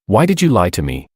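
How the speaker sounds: plain reading voice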